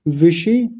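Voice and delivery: विषि set apart as VI-SHI; broken-off word part. Shown as a demonstration. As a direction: say विषि as its own piece. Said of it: "थोड़ा तोड़ लेते हैं इसको". (विषि अलग करके)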